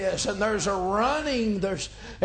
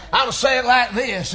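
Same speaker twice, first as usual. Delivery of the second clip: said again, louder and firmer; louder repeat; 3 semitones higher, 7 dB louder, faster than usual. Shown as a demonstration. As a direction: repeat it with more force.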